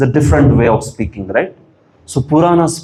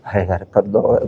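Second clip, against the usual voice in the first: quick, softer, careless request; offhand casual ask; 4 semitones lower, 4 dB quieter, much faster than usual. Retold or imitated. Teacher mimicking a weak king, quick casual ask. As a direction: toss it off like a buddy. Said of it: "If king starts speaking like this".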